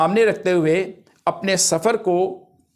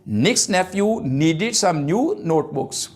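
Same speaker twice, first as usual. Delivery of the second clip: very slow, word-by-word recitation; deliberate read-out for learners; slow example reading; much slower than usual. Shown as a demonstration. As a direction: space out each alliterative word. Reading alliteration examples for class.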